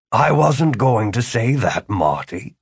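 slow, mildly hurt protest; wounded. Acted. Mentor denying it to his student, slightly wounded. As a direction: draw it out as if a bit hurt, dropping on the name. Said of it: "Philip looked wounded".

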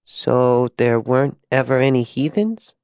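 lightly voiced small girl asking a question; innocent, puzzled child; curious little girl.

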